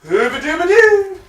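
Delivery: slack jaw voice. Retold or imitated. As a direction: do the dim secret agent, goofy and cracking up. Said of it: "he sounds dopey".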